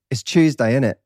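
East London Cockney, Tuesday as 'Chewsday'; Cockney accent. Shown as a demonstration. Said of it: "you have to know British accents".

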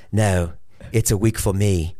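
lightly put-on English accent. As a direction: answer drily with a hint of an English accent. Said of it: "he has an English accent".

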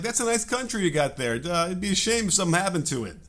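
smiling menacing loan shark; mock mobster threat, sweetly delivered. Mobster-style veiled threat quote.

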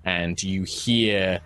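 slow, measured fantasy narration; unhurried storyteller pacing; game master's scene setting. Acted. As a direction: set the scene slowly, pausing between phrases.

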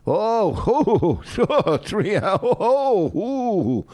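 drawn-out swooping oohs; mock bragging. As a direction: make fun of a wife's boast, stretching it out. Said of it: "How you brag".

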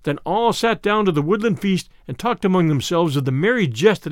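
measured storybook reading; story narration. A narrator's reading. Narrator tells listeners of Robin Hood's woodland feast, measured storytelling. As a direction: narrate the old tale with rolling phrasing.

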